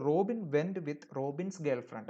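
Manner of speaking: very slow, word by word; slow example reading. Shown as a demonstration. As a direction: read the example slowly and clearly. Teacher quotes the example again. (പതുക്കെ വ്യക്തമായി വായിക്കുന്നു)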